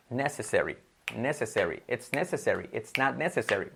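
"necessary" as "NE-se-se-ri"; first-syllable stress. Shown as a demonstration. Teacher drilling necessary, first-syllable stress. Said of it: "ponemos acentuación en la primera".

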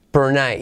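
"Per night" with hardly any vowel in "Per"; swallowed vowel. Shown as a demonstration. Teacher showing learners "Per night" with the vowel swallowed. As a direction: squeeze "Per" down to P and R before "night". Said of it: "se come la vocal".

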